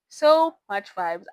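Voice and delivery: slow, loud gushing emphasis; loud slow enthusiastic gush. Real, not acted. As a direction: stretch it out with delight. Gushing about book.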